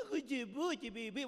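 a light mocking coo, like a mother to a baby; baby talk voice. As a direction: tease it in a doting mom's little voice. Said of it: "te hablan con la vocecita esa".

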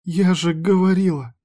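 a sharp cry of fear; rising alarm. Acted. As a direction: she repeats it in rising panic. Frightened wife repeats herself.

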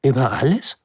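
astonished little prince. Acted. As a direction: echo in disbelief. Prince echoes in wonder. (staunender kleiner Prinz, fragend)

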